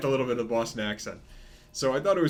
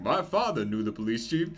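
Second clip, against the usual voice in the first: imitated southern detective's accent; 3 semitones lower than usual. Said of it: "southern accent".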